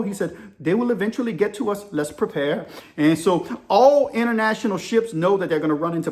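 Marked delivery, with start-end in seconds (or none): 0.6-2.7 imitated Indian chief mate; lightly put-on Indian accent; poor Indian accent. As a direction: answer in a rough Indian accent. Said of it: "I'm about to give you my poor Indian accent".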